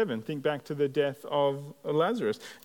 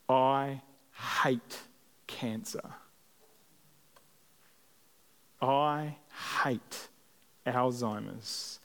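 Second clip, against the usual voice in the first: through gritted teeth. Retold or imitated. Preacher recalls his son's funeral, halting and grief-stricken. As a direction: force each hate out through tears. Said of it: "through gritted teeth and tear-filled eyes".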